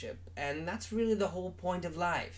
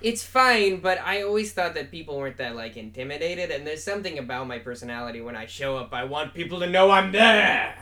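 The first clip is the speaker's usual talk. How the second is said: Canadian accent; 4 dB louder than usual. Shown as a demonstration. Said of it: "your natural Canadian accent".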